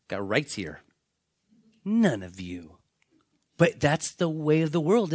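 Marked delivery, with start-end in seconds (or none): 0.1-0.8 mock whisper. Mocking people claiming their rights. 1.8-2.8 whispered aside. Real, not acted. Aside to the congregation.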